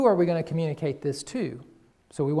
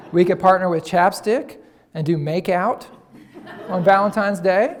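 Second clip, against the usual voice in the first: laughing through the pun; 3 semitones higher, 7 dB louder than usual. Real, not acted.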